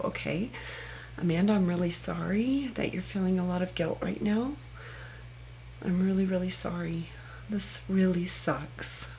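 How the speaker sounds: quiet, sympathetic, fading to a whisper at the end; soft self-comfort. Shown as a demonstration. Amanda being her own best friend about guilt, quietly tender. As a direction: console yourself gently. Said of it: "I'll just sit there and go".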